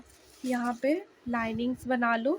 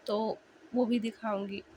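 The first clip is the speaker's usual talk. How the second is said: whisper. Real, not acted. Aside while voice is hoarse.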